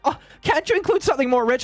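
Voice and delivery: high, fast prissy British complaint; mocking Brit whine. Streamer mocks British chatters, prissy high whine. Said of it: "And it's just like".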